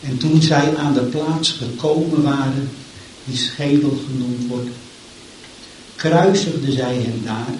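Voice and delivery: solemn, measured Bible reading; scripture reading. Acted. Preacher reading the crucifixion to the church, solemn. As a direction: read the passage with gravity. Reads Luke 23 aloud.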